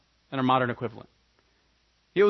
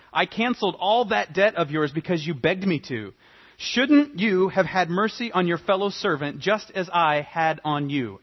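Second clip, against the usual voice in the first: indignant master; 2 semitones higher, 5 dB louder than usual. Acted. Master rebukes servant.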